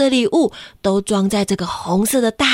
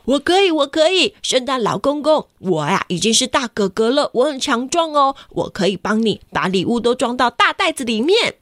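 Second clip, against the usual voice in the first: put-on eager little boy; 3 semitones higher than usual. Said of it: "绿色头发的小绿就说".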